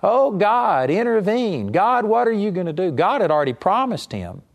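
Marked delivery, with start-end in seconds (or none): 0.0-2.9 imitating Moses crying out in desperation; crying out to God. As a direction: beg God for help in a rising cry. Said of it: "started crying out".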